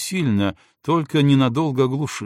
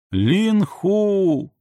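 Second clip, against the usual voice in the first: calling out; 9 semitones higher than usual. Acted. Calling out to wake him.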